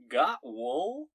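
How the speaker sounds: loud, high mammoth with a rising question; earnest woolly mammoth. Acted. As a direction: ask it like an eager mascot on a sock. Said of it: "a woolly mammoth earnestly asks".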